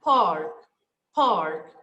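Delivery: "Park" said three times low, clear and deliberate; teacher dictating a listening item; dictation word. Shown as a demonstration. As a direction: read the test word out for the class. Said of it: "Let's hear it again".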